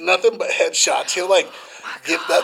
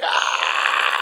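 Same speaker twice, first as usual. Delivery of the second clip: drawn-out mock yelp of pain; imitated pained cry. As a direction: cry out like a man being kicked. Imitating kicked man's cry.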